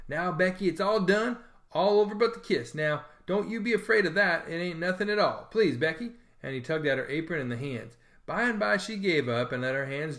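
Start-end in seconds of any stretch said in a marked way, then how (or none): 0.1-6.1 pleading. Acted.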